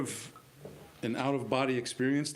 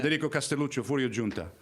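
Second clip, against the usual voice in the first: put-on Italian accent; faster than usual. Newcomer reading his character's name at the table, lightly Italian. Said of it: "Once I did the voice".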